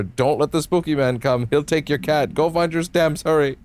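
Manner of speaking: high, hammy spooky warning; spooky chain letter voice. Acted. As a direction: read it like a campy curse.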